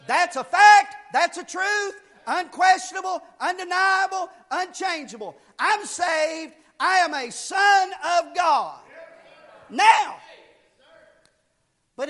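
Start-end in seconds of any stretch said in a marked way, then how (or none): 0.1-10.2 short declarations, each punched separately; ringing pulpit affirmation; emphatic preaching. Real, not acted. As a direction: proclaim it with total conviction. Preaches assurance of salvation.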